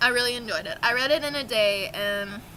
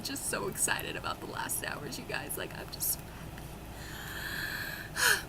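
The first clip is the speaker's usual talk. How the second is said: whispering; 3 semitones lower, 10 dB quieter than usual. Real, not acted. Secret thrill about the Last Hours.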